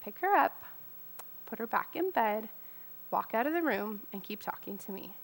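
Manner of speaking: voce di Dio calma e sommessa, che si spegne; quiet, gentle voice of God. Retold or imitated. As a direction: come un sussurro che guida con pazienza. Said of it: "he very quietly said".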